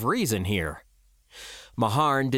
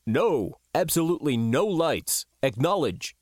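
firm, sharp order; sharply insistent instruction; 3 semitones higher than usual. Acted. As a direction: give a curt command over comms. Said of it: "said sharply".

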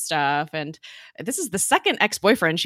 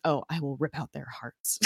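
mock crazy threat; 4 semitones lower, 7 dB quieter than usual.

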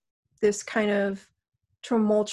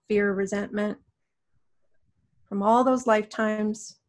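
guided meditation. Acted. Guides a healing session.

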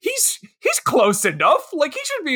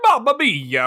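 hammed-up mock Italian accent; fake Italian accent; 4 semitones higher than usual. Friend goofing around with fake Italian phrases, mock Italian accent. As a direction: put on a cartoon Italian accent. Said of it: "do the fake Italian".

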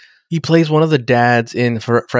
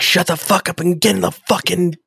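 mock order; 6 semitones higher than usual. Acting out Picard's impatient order.

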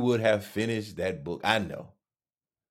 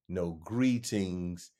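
ordinary talk, nothing marked

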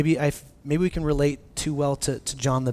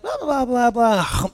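imitating toddler chatter; 7 semitones higher, slower than usual. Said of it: "she's like".

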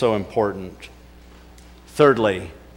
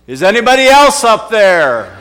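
high, loud call through laughter; laughing shout; 8 semitones higher, 9 dB louder than usual. Retold or imitated. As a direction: yell it up, cracking up. Punchline, laughing.

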